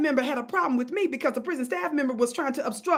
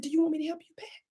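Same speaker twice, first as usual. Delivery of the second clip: sweetly offered help; 4 semitones higher, 5 dB quieter, faster than usual. Retold or imitated. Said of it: "I said".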